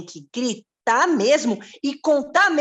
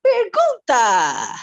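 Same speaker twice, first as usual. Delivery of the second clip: anúncio brincalhão; 3 semitones higher, 6 dB louder, much slower than usual. Pretend. Playful announcement of next question.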